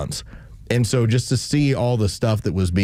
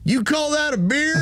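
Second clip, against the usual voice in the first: mock heckler's yell. Man in the crowd challenging a winner's beard, mock yell. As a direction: imitate a yell from the crowd, pitched way up. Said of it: "a guy who yells from the crowd".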